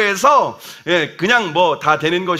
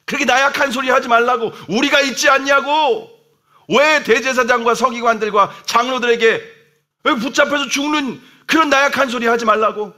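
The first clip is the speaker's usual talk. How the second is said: scolding Peter; 4 semitones higher than usual. Retold or imitated. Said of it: "막 예수님을 지금 혼내고".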